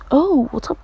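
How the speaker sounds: loud, high mock hello; brash greeting. He greets the staring students, a loud brash hail.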